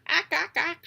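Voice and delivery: loud high screaming cries; harsh loud bird cries, high. A narrator's reading. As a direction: shriek at the raven. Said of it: "she screams".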